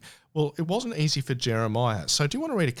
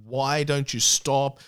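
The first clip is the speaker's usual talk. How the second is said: frustrated plea; 2 semitones higher, slower than usual. Retold or imitated.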